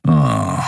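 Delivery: low, scornful "ah"; contemptuous groan. A narrator's reading. Keru scoffs at her love declaration, contemptuous groan. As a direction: groan it in disdain. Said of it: "ein verächtliches".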